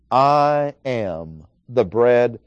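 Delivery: "I am" stretched out slowly; stress on "I am". Shown as a demonstration. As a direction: dwell on "I am" before the rest. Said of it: "notice a strong emphasis on the identity".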